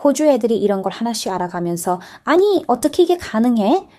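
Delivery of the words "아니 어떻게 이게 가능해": imitating an amazed learner, voice jumping higher; mock wonder, pitched up; amazed exclaim. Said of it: "하고 감탄하는 거죠". (감탄하듯 높게)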